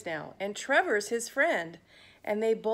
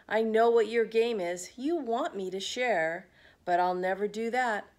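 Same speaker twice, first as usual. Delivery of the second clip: possessive outburst. Acted. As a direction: bark mine, mine at Trevor. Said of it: "Pig flipped his wig".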